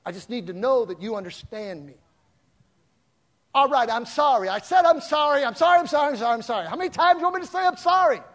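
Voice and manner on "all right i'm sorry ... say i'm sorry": loud, high exasperated sorry; angry apology. Retold or imitated. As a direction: shout the apology in frustration. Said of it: "That doesn't work".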